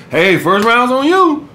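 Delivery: goofy mock-seductive take. Shown as a demonstration. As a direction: ham it up like a goof. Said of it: "Goofy ass".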